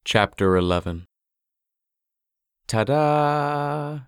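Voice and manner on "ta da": high bright ta-da call; triumphant. Acted. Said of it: "called out triumphantly".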